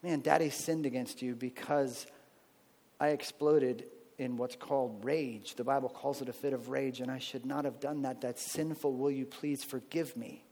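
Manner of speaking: humble dad owning his rage; father apologizing. Shown as a demonstration. Father confessing to his child, quiet and tender. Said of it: "teaching our children".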